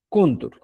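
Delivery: Contour, said alone as a clear model; quechua word. Shown as a demonstration. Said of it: "contour encuentras". (pronunciación modelo de Contour)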